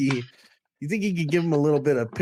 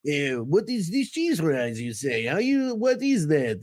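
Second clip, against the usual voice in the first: put-on French Canadian accent; 2 semitones higher than usual. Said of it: "went from a French Canadian accent".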